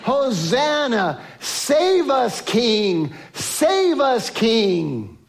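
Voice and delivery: lightly voiced crowd shouting hosanna; crying out hosanna. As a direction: call out like a hopeful crowd. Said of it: "they all cried out".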